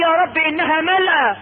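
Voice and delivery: high, plaintive appeal; plaintive protest. Acted. Man telling God Paradise is full, plaintive.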